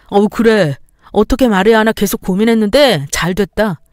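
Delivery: angry husband. Acted. Husband shouts back in quarrel.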